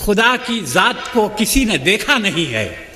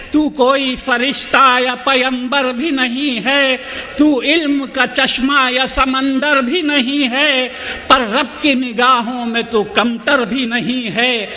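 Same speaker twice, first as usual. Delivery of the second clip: measured, rhythmic mushaira delivery; stately nazm recitation; 3 semitones higher than usual. Acted. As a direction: recite each couplet with gravity.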